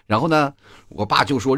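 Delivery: ordinary talk, nothing marked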